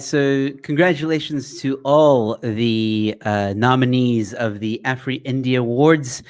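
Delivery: smooth radio announcer read. Acted. Host congratulates award nominees in his radio voice. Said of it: "I tried to put on my radio voice".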